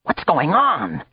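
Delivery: slow, high cry; cried out. Acted. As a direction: draw out the bewildered cry. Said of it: "he cried".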